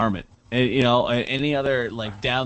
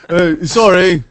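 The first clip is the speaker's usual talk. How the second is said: mock Brit; 5 semitones higher, 9 dB louder than usual. Switching into a mock soccer voice.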